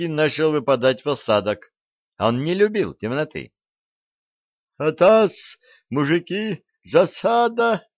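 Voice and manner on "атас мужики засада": high, loud warning yell; alarm call. A narrator's reading. The owl warns the men of an ambush, shrill and loud. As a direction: raise the alarm, pitch climbing. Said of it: "несовинным голосом ухнула сова".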